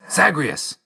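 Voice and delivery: high, urgent name call. Acted. Fighter calling to his ally, urgent high cry. Calls ally's name in combat.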